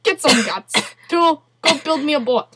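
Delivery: indignant put-on Russian accent; mock Russian accent. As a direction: scold them in a hammed-up Russian accent. Mock Russian harangue, ordering boat.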